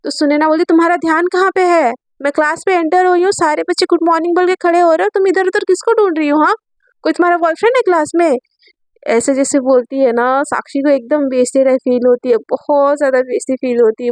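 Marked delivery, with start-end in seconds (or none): 0.6-8.4 higher, sharp scolding. Acted. Teacher scolding student before the class, higher. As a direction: tell her off in front of class.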